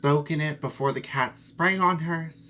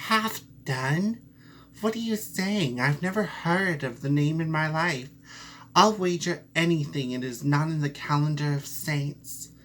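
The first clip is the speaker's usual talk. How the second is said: surprised mouse; 3 semitones higher than usual. Acted. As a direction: gasp at the name like a small mouse. Mouse shocked by name.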